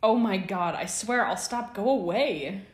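high, loud flustered plea; loud pleading. A narrator's reading. Remus begging as James and Sirius close in, pleading. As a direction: beg them off at full voice. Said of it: "Remus pleaded".

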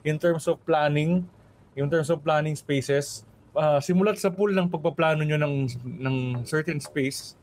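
earnest, measured appeal, slowing on key phrases; serious appeal. Real, not acted. Podcast guest urging listeners to hire Filipino landscape architects, serious. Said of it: "Pero seriously".

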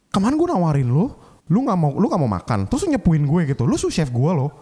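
venting at the sous chef who reported him; retold angry rant. Angry retort to the sous chef who reported him.

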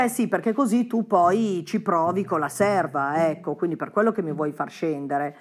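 mock jealous wife. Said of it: "E dice".

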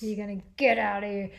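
low, quick final order; lightly voiced stern bouncer; deep firm voice. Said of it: "inner Liam Neeson".

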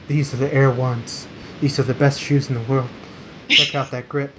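monotone sneaker review, little movement in pitch; monotone reviewer. Retold or imitated. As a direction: deliver shoe praise in a dull monotone. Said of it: "he just talks so monotone".

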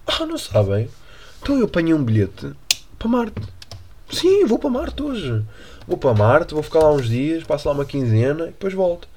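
lightly voiced president, proud of his trip; mock president. (presidente imitado com voz aguda e lenta)

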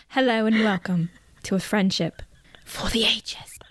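hushed British narrator voice. Pretend. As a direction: whisper it like a British documentary narrator. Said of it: "our narrator's gonna be British".

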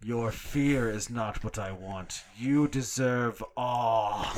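slow, drawn-out menacing killer; serial killer voice. Acted. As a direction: savor every word like a psychopath. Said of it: "fantastic serial killer voice".

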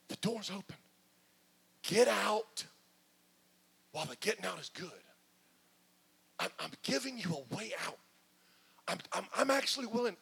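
soft strained pleading, barely held back; God quietly begs through his teeth. Acted. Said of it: "I'm talking through my teeth".

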